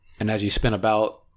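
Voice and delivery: ordinary delivery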